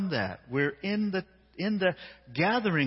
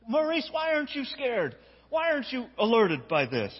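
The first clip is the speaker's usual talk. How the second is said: teasing onlooker; 6 semitones higher than usual. Acted. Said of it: "crowd voice teasing Maurice".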